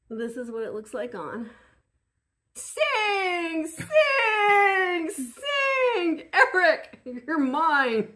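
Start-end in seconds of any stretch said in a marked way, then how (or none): 2.6-8.1 high, loud villainous cackling command; villain sea witch. Pretend. Playing Ursula with eye mask.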